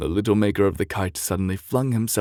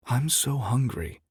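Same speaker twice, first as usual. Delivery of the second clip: sobbing; 7 semitones higher than usual. Acted. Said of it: "he heard Anna sobbing".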